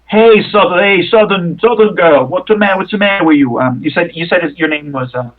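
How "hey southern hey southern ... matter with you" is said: bruiser calling out. Acted. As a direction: bark at the Southern girl, concerned. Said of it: "turns around and goes".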